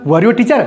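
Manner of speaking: rising question tune on "Were you a teacher?"; question intonation. Shown as a demonstration. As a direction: ask it as a real question. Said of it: "कैसे बोलना?".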